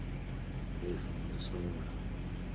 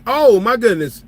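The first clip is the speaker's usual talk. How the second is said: shocked; 9 semitones higher, 8 dB louder, slower than usual. Retold or imitated. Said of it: "I'm like".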